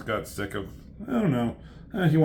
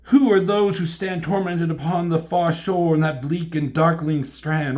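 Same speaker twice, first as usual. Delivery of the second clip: raised, slowing theatrical declamation; melodramatic heroine, aghast; 4 semitones higher, 4 dB louder than usual. Acted. Elektra seeing tormented figures on the shore, hammed-up and aghast. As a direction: declaim it like gothic tragedy.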